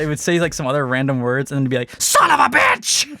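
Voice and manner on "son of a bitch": high, loud shrieking parrot cry; parrot squawking curse. Retold or imitated. Parrot mimicking the cousin, shrieking curse. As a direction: screech it like a cursing parrot. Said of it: "just be like".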